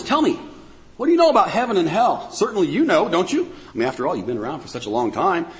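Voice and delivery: biting sarcasm. Retold or imitated. God asks man about heaven and hell, sarcastic. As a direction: feign certainty that they know it all. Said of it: "ripping into them with this biting sarcasm".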